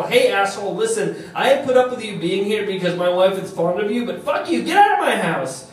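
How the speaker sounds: jealous husband throwing a rival out; angry husband. Acted. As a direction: start firm, rise to a high-pitched order to leave. Husband angrily ordering rival out.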